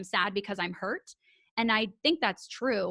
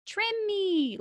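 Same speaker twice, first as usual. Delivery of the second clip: pleading hair voice; 11 semitones higher than usual. Pretend.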